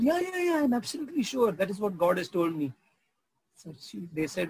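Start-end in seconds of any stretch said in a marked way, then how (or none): 0.0-2.7 insistent auntie. Retold or imitated. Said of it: "She said".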